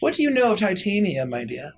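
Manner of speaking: high, quick, pressing question; eager fey lady. Acted. Fey lady pressing the gnome about Titania, high and quick. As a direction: lean in eagerly, then soften.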